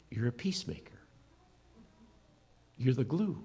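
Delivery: hushed whisper. Real, not acted. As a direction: whisper it like a secret to each listener. Intimate aside to congregation.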